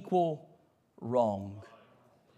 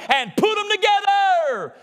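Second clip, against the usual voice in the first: preaching climax; 10 semitones higher, 4 dB louder, slower than usual. Real, not acted. Pastor crying out to the congregation, rising to a high, slow climax. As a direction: climb high and slow on the last words.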